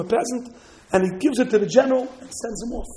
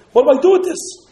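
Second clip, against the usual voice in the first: worried plea; 7 semitones higher, 10 dB louder than usual. Acted. Worried Jew consulting rabbi.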